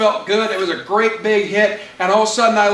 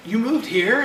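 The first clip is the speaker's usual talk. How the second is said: lightly acted surprised question; a touch of happy disbelief; mildly surprised boy; 3 semitones higher than usual. Boy asks his reunited friend, mildly surprised. First of two surprised boys, milder take.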